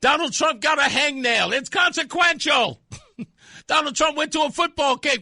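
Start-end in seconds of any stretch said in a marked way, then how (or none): 1.5-2.8 mock shout. Host mocking repeated word.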